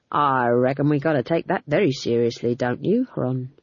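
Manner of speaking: low, mock-serious threat; menacing guard. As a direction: smirk through it.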